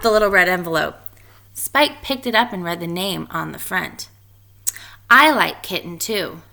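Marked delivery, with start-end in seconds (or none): 5.1-6.4 announced. Acted. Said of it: "Spike announced".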